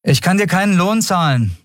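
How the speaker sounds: high, clear captain's voice; woman captain. Acted. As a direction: announce it to the boy in a high-pitched voice. Captain addresses the dejected boy.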